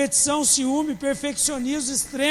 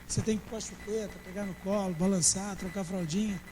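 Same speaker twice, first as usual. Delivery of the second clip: mocking baby care; 5 semitones lower, 8 dB quieter than usual. Mocks crying members as babies.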